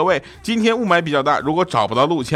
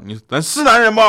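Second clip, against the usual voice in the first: loud, higher challenge; calling out; 10 semitones higher, 6 dB louder than usual. Retold or imitated. Uncle calling to crying nephew, loud and higher. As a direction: rouse the kid like a tough uncle.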